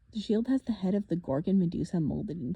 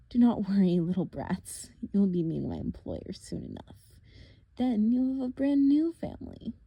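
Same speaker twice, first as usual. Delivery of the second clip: a lightly voiced, taunting monster; mock them, a touch sinister; menacing villain; 5 dB louder than usual. Villain taunting the half-blood at the cliff edge, lightly menacing. Thorne's voice.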